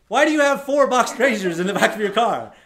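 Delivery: loud, high, disbelieving question; as if you can't believe your eyes; incredulous question. Retold or imitated. Questioning the razor salesman.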